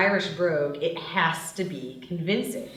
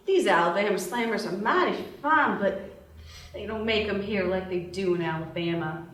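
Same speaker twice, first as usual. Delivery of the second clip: fake Southern drawl. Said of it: "Violet resumes the fake Southern drawl".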